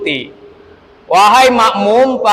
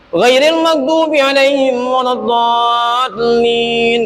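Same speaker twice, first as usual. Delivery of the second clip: shrill imam voice; 3 semitones higher, slower than usual. Shown as a demonstration. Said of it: "Imamnya cengkreng".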